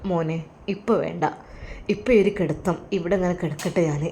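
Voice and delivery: put-on tired old father, soft and quiet; a frail father too weary to get up; quietly voiced ailing father; weak old father.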